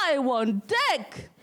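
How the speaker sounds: long drawn-out call to the hills; mock yell. Woman calling out to the hills at morning, drawn-out mock yell. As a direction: call it out slowly, stretching each word. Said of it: "you yelled to the hills".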